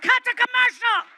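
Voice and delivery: high loud announcer shout; TV director yell. Retold or imitated. Network staff stop the broadcast, loud high shout. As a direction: shout like a panicked TV producer. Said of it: "They'd have been like".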